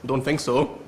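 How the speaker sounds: put-on Scottish accent. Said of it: "learn the Scottish accent".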